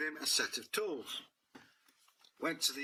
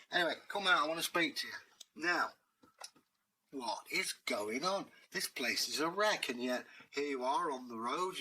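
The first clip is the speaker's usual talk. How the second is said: a hint of a cocky cat, raised pitch; lightly voiced cat hero; 2 semitones higher than usual. Dave questioning the village master, lightly voiced. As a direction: bold streetwise cat demanding answers.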